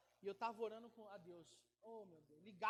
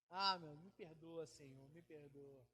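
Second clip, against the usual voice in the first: slow, lower, softer begging forgiveness; mock tearful plea; 9 semitones lower, 3 dB quieter, slower than usual. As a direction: plead with the Lord, drawn out. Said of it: "Aí eu começo a rir".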